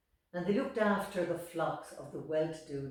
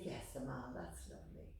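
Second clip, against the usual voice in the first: distracted murmur; 4 semitones lower, 8 dB quieter than usual. Mother answering absently.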